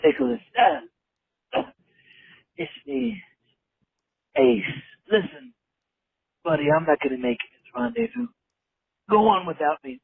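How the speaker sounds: hammy dying soldier farewell; overacted death scene. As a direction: gasp out goodbyes like a dying hero. Caller acts dying on voicemail.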